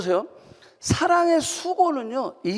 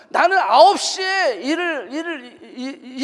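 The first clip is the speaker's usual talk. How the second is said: usual speaking voice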